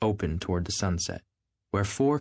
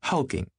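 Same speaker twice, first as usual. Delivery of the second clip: high teasing insistence on "Hulking"; insisting; 6 semitones higher than usual. Acted. Daisy teasing Tom, high insistent repeat. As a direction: repeat "Hulking" to needle him. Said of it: "insisted Daisy".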